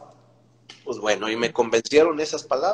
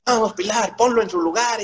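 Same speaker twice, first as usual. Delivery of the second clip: high, mocking cheer; egging him on from the sidelines; teasing cheer; 10 semitones higher, 3 dB louder than usual. (compañeros animan a Pilar con burla aguda)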